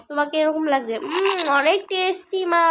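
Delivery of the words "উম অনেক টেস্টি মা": put-on higher child voice savouring food; a kid going mmm over tasty food. Child praises mother's cooking, higher child voice.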